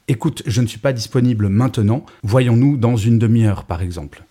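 patient, reassuring tone; calm and kind. Shown as a demonstration. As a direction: gently offer another time. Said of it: "et dire". (calme et bienveillant)

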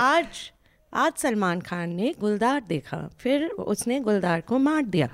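fast, hushed mock documentary narration; nature documentary. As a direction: rattle it off like a cheesy wildlife filler. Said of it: "I can write a good wildlife documentary".

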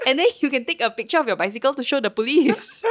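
high, loud, giggling through the punchline; laughing through the words. Retold or imitated. Friend pitches a cheeky plan, laughing loudly. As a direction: crack up while pitching the silly plan.

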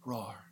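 soft, tame little roar; quiet token roar; half-hearted roar. Pretend. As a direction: roar without any force. Tame roar after "Get wild.

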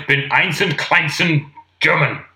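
mock German speaker; German accent. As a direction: put on a deliberate German accent.

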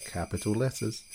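normal talking voice

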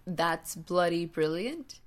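lightly imitated English accent, drawn out; slow quote in a mild English accent. Little sister swearing at school, imitated English accent. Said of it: "she did it with the English accent".

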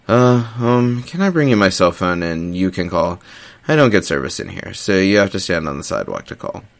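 hesitant, a touch nervous. Acted. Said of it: "I finally said nervously".

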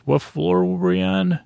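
held high, mock clueless asking; mock puzzled. Forgetful hotel guest asking his companions, mock puzzled.

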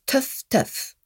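French pronunciation of Tough Tough; French accent. Shown as a demonstration. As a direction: pronounce Tough Tough like a French speaker, slowly. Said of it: "in the French accent".

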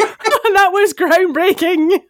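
slow, drawn-out mock praise; groundbreaking said slowly, sarcastic and amused; mock-impressed. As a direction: savour each word like a smug lover. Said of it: "I'd be like".

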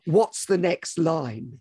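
slow, anxious mock panic; understated stage panic; panicked mock. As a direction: blank on stage, lightly. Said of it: "and you go".

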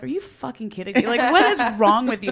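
mock outrage, rising in pitch; retold exasperation. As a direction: imitate a partner's incredulous telling-off. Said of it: "he was so mad".

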